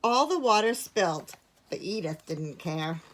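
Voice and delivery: measured picture-book narration with long pauses; clear, unhurried storytelling; story reading. A narrator's reading. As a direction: read it to young children. Reads a picture book to children.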